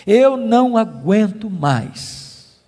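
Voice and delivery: slow, drawn-out desperate plea; retold despair. Preacher voicing a believer's cry to God, slowly despairing. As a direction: imitate someone at the end of their endurance, dragging each word. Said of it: "desesperados, dizendo".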